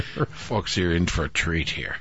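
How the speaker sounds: slow, hushed sarcastic whisper; whispered aside. Real, not acted. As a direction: lean in and whisper it to the listeners.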